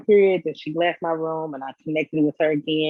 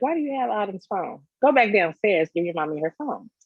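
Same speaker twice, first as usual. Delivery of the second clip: put-on raised-pitch mom telling off a toddler; retold mild scolding; 4 semitones higher than usual. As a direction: lightly mimic telling a small child off.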